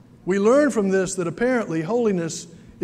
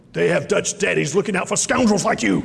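put-on old gentleman's warning. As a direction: let the threat sit under the politeness, lightly voiced. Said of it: "he said it just like that".

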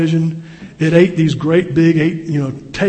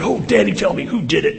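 put-on pleading child; 3 semitones higher than usual. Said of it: "He said".

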